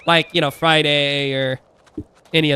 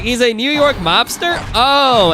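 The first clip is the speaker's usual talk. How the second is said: higher, baffled wait-a-minute; incredulous double take; 6 semitones higher, 3 dB louder, slower than usual. Retold or imitated. Streamer reenacts hearing Chucky sounds like a mobster, incredulous. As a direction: retell your own stunned reaction, pitched up. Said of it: "I'm like".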